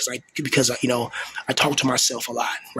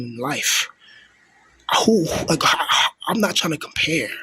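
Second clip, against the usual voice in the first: tearful; 2 semitones higher than usual. Real, not acted. Venting, voice breaking.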